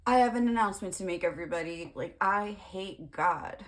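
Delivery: a light pastor impression; hammed-up pastor announcement. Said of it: "and he's like".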